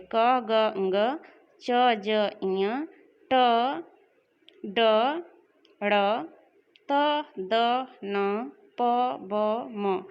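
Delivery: क, ग, ङ, च, ज, ञ said one by one with little breath; unaspirated letters demo. Shown as a demonstration. Teacher showing students the alpa prana letters, clearly articulated one at a time. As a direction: sound out each letter क through म slowly, with only a light puff of air. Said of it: "अल्प प्राण का उच्चारण कर लेते हैं पहले".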